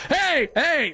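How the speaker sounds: high-pitched imitation of customers calling; mock yelling. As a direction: mimic customers hollering for service, without real volume. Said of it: "people were yelling at me".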